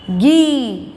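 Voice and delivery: गी with the ee held long; long, intense vowel. Shown as a demonstration. Teacher showing the long vowel sign, गी held strongly. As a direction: push out a long ee in गी. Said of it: "ध्वनि तीव्र निकलती है".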